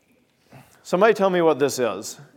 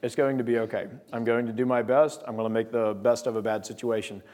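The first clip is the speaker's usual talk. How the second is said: at peace; 4 semitones lower, 4 dB quieter than usual. Acted. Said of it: "Because God's given you peace".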